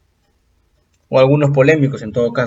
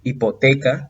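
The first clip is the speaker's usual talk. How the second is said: "Hipoteca" stressed on TE; stress on penultimate syllable; slower than usual. Shown as a demonstration. Teacher gives an example of grave words, penultimate stress. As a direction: lean on TE in "Hipoteca". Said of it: "presentan acento en la penúltima sílaba".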